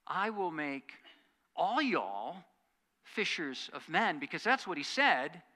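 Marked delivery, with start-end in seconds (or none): 0.1-4.2 a light put-on Southern drawl on y'all; slow, lightly hammed Southern preacher accent; mock Southern accent. Teasing Rodney with a light mock Southern accent. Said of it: "maybe not with quite that accent".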